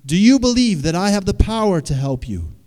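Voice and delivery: big, high, booming call from above; voice from the sky. Acted. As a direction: call down loudly like God from the heavens. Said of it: "The voice came out of the sky again".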